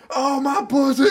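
high, laughing mock shriek. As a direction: shriek it like a movie teen. Mocking the characters' screaming.

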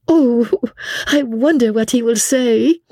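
put-on high, wondering girlish voice; curious French girl. A narrator's reading. Suzanne's character wonders about the prosecutor, high curious voice.

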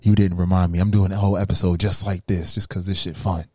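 smooth radio host voice; silky late-night DJ delivery. Acted. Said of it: "as we use our radio voices".

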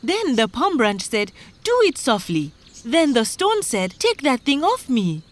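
high, urgent complaint; worked-up farmer's recital; agitated farmer. Acted. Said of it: "began to recite their troubles".

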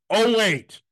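retold sarcastic comeback; snarky. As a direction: fake a sudden discovery, then land it dryly low. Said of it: "I got really fucking snarky".

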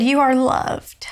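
whispered gently, unvoiced and slow; soft whisper. Retelling the stranger at Lowe's, whispered softly. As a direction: breathe it like a secret blessing. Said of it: "she said".

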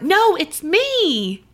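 slow eerie drawn-out voice; creepy slow voice. Retold or imitated. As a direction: stretch it out like a ghost. Acting out a creepy reply.

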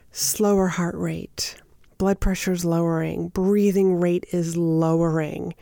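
slow, hushed, calming delivery. Shown as a demonstration. Coach showing listeners how slowing down calms an audience, slow and hushed. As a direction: ease the pace right down as if settling back. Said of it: "And when you slow down".

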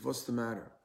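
imitated old man's Polish accent; Polish-accented English, retold; heavy Polish accent. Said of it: "in his heavy Polish accent".

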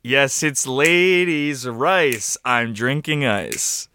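talking around an ice cube; words slurred past ice; ice in mouth. Real, not acted. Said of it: "holding an ice cube in his mouth".

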